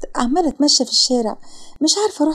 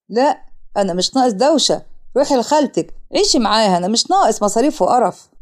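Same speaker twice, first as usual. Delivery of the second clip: dismissive father; 2 semitones lower than usual. Acted. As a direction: refuse her sternly. Father refuses and sends her away. (أب زهقان ورافض)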